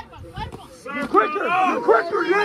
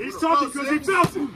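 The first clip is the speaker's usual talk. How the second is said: fast excited shout; much faster than usual. Real, not acted. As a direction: yell it out quickly, fired up. Coach repeats line louder.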